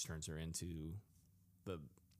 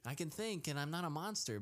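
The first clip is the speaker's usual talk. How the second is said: mock She-Hulk voice; 8 semitones higher than usual. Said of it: "they're like".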